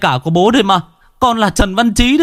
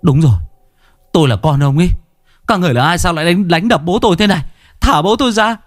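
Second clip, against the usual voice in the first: urgent demand; 8 semitones higher, faster than usual. A narrator's reading. Son confronting demons.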